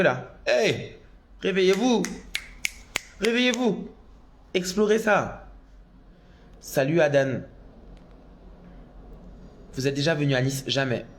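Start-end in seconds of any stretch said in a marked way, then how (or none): 0.5-5.5 high, rallying cry to the crowd; rousing call. Real, not acted. A drag queen urging her viewers to wake up, with a high rallying cry. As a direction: shake the audience awake, high and punchy.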